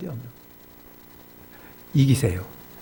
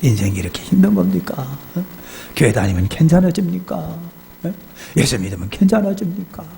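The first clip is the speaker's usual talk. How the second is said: raised, pleading tipsy questions; drunken lament; 4 semitones higher than usual. Retold or imitated. Village head questioning a preacher about life, lightly drunken. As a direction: lightly act a drunk demanding answers. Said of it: "술김에 말이 와가지고".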